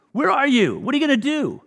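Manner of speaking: loud, high mocking challenge; loud jeering demand; taunting shout. Old ladies harassing the police.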